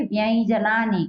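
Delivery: व्यंजनानी slowly as "vyain-janani"; nasal y glide before j in व्यंजनानी; palatal nasal glide. Shown as a demonstration. Teacher giving what we will say instead, palatal nasal glide. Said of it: "हम क्या कहेंगे".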